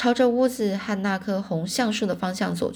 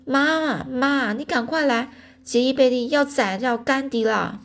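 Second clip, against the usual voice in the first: high, urgent cry for mom; raised, pleading yell to mother; loud calling out; 6 semitones higher than usual. A narrator's reading. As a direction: shout for help like an alarmed tattling child. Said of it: "黛西大声呼喊说".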